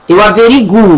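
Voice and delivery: "averiguo" with a clear stressed U; correct pronunciation. Shown as a demonstration. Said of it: "a pronúncia correta é essa".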